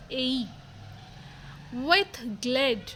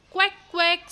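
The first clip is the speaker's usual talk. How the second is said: duck quacks; 5 semitones higher, 4 dB louder than usual. Acted.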